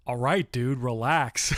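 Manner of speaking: lightly sassy, casual brush-off; ballsy teen retort. Retold or imitated. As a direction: toss it off like a cocky teen. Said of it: "something as ballsy as".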